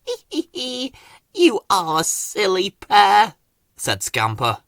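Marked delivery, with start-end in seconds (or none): 0.1-3.4 giggling. Acted. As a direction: giggle at the silly pair.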